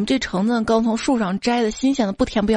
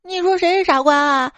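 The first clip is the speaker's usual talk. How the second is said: high-pitched, outraged little sister; indignant yell; 8 semitones higher, 4 dB louder than usual. Acted. Little sister yells at her teasing sibling, indignant high shout. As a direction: snap back in a mock furious shout. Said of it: "冲我吼道".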